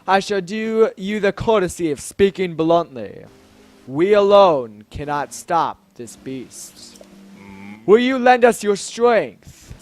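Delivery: slow, weighty royal appeal; grand Zora king, pleading. Acted. King asking the hero for help, grand and solemn. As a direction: draw out the plea with regal gravity.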